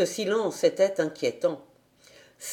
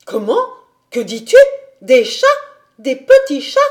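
loud questions in short bursts; horrified exclamation; 5 semitones higher, 10 dB louder than usual. A narrator's reading. Governess learns of the kittens, horrified cries. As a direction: cry out in rising horror. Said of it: "s'écria mademoiselle Rottenmeier".

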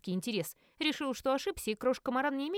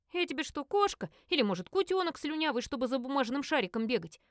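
indignant, pitched up and huffy; offended retort; 4 semitones higher than usual. Acted. Cat snaps back at Chester, indignant and higher. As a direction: bristle at the insult. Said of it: "Я оскорбилась".

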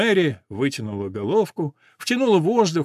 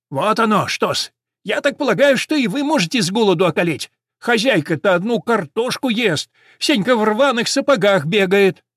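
high, loud, needling sparrow; smug sparrow; 7 semitones higher, 5 dB louder than usual. A narrator's reading. Sparrow warns they may all starve, smugly scolding. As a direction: lecture them smugly in a raised voice.

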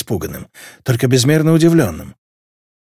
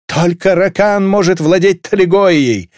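raised, slow, louder proclamation; shouted out; 5 semitones higher, 4 dB louder than usual. A narrator's reading. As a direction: bellow the claim to the room. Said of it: "выкрикнул Вускерт". (выкрикнуть громко и медленно)

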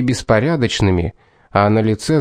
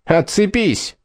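much higher angry roar; 8 semitones higher, slower than usual. A narrator's reading. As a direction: snarl it out in fury. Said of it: "взревел Дадли".

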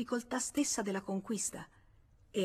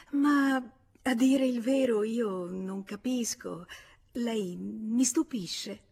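flustered stammer; 3 semitones higher, 4 dB louder, slower than usual. Acted.

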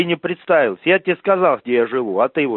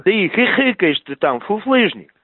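angry shouting; 5 semitones higher than usual. Real, not acted. Heated demand on phone call.

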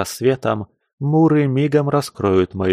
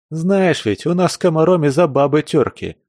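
возмущённо =86; 7 semitones higher than usual. Acted. Азиат продолжает возмущаться.

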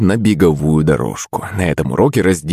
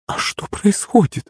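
frightened gasp; 13 semitones higher, 4 dB quieter than usual. Acted. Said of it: "охнула Пышка".

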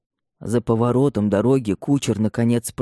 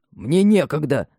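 irritated, mildly raised snap; annoyed shout; 5 semitones higher than usual. A narrator's reading. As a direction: brush the servant off, vexed. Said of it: "с досадой крикнул Шонау".

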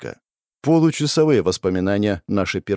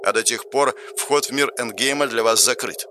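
system announcer. Acted. Game system informs dead player, measured announcer voice. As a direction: deliver the rules like an impersonal system.

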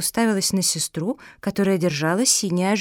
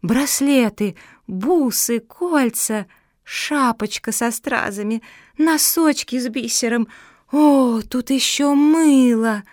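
higher, louder listing of treasures; excited calling out; 4 semitones higher, 3 dB louder, slower than usual. Acted. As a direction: shout out each find with glee. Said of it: "выкрикивая".

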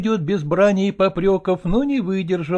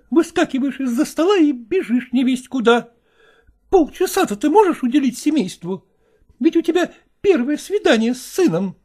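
high, pleading wife's voice; softened wife; 8 semitones higher than usual. Acted. Wife trying to keep husband at the table, high and pleading. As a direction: coax him to stay.

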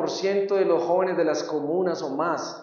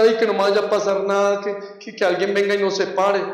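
mock frightened plea; 2 semitones higher than usual. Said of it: "por dentro era".

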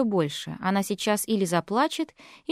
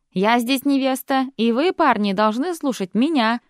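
commanding bride; 3 dB louder than usual. Acted.

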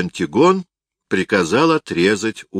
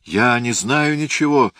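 higher-pitched, pitiful protest; plaintive moan; 6 semitones higher than usual. A narrator's reading. Helpless Hyrcanus pleads with his captor, plaintively. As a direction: plead innocence with a mild moan. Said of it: "жалобно простонал Геркан".

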